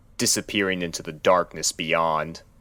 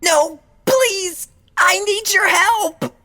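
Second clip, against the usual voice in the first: high, pleading, frantic voice; desperate cry for help; 8 dB louder, slower than usual. A narrator's reading. Fluttershy begs the doctor to stay, high desperate plea. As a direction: beg him not to leave. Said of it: "she cried out".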